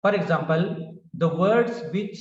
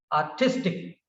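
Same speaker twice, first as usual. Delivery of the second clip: Artistic with the stress on the middle syllable tis; 3 semitones lower than usual. Shown as a demonstration. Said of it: "like this".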